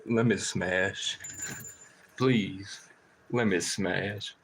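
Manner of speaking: slow, low pleading crow; drawn-out crow begging to mate. Retold or imitated. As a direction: beg slowly like a lovesick crow. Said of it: "And then I go".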